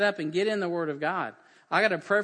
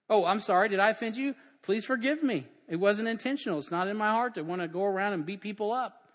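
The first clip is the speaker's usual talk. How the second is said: higher-pitched, earnest-sounding plea; acted apology; 4 semitones higher, 4 dB louder than usual. Preacher playing someone who offended another, pleading apology. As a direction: plead innocence in a mock apology.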